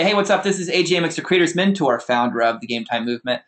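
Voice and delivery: upbeat, charismatic intro with a lift on hey; elevated persona. Shown as a demonstration. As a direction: sell yourself with bright, confident energy. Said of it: "I have, like, this elevated persona".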